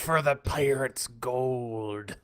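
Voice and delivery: slow, lightly voiced pirate; Barbossa imitation. Joking about Jeffrey Rush's pirate, a light slow pirate voice. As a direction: drawl it slowly as a pirate captain. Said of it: "an imitation of Jeffrey Rush".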